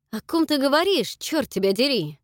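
loud, high, confused question; bewildered loud question; baffled demand. Acted. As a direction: demand what she means. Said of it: "непонимающе спросил Джек".

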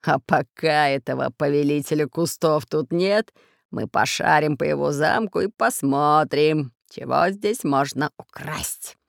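low, sly pirate voice; scheming pirate. Acted. Pirate telling mate they'll rob the castle. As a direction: plot it greedily. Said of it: "засмеялся пират Бульбуль".

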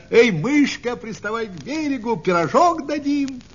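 put-on high, hailing children's call; high-pitched storybook shout; calling from shore. A narrator's reading. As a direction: call the mouse over from the riverbank. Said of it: "кричат ей ребята с берега".

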